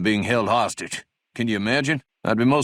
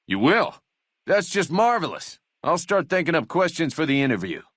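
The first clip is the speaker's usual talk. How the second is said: high, delighted exclamation; delighted surprise; 6 semitones higher than usual. Acted. Deputy learns the courier will help, delighted surprise. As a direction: jump up in pitch with glad surprise.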